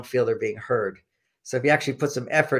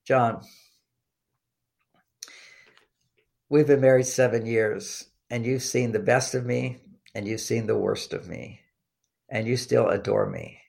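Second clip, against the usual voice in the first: tender; 2 semitones lower than usual. Retold or imitated. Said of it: "so sweet".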